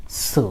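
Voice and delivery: সু with a hissed s and no t; teacher's careful demonstration of সু; model pronunciation. Shown as a demonstration. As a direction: sound out সু as a clean su. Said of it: "এটার মতো উচ্চারণ করবেন".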